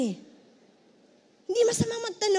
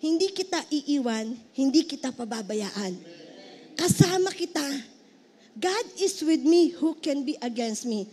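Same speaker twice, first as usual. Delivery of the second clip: reassuring voice of God; 5 semitones lower than usual. Acted. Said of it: "kakausapin ka ng Panginoon".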